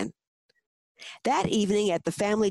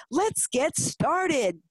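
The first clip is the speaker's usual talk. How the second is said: slow, higher-pitched rallying declaration; declaring; 6 semitones higher, much slower than usual. A narrator's reading. Mommy's dad approving the plan before the clapping family, hearty declaration. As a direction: announce it slowly, stretching each word. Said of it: "Mommy's dad declared".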